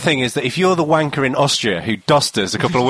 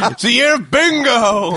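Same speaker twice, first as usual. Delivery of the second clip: excited; 10 semitones higher, 4 dB louder, slower than usual. Real, not acted. Drunk shouting prediction.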